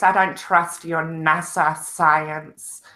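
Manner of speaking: slow deadpan sarcasm; sarcastic. Pretend. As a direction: drag it out, mock-suspicious. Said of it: "so I am being sarcastic".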